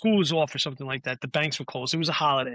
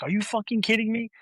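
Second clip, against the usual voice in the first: incredulous; 7 semitones higher than usual. Retold or imitated. Friend reacts to unwelcome interview news.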